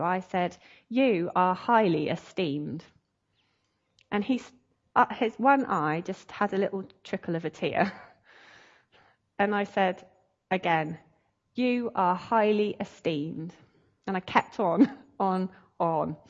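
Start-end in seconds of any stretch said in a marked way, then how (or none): 0.9-2.8 slow, deliberate declaration; measured, sincere pronouncement; solemn affirmation. Retold or imitated. Solemn declaration to man's soul. 11.6-13.5 slow, deliberate repeat of a declaration; measured, sincere pronouncement; solemn affirmation. Retold or imitated.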